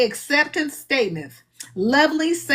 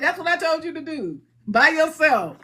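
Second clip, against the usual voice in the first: lightly acted, matter-of-fact higher reply; a hint of God, settled and unbothered; God confirming; 4 semitones higher than usual. God answers the laughing speaker, mildly matter-of-fact. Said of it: "God said".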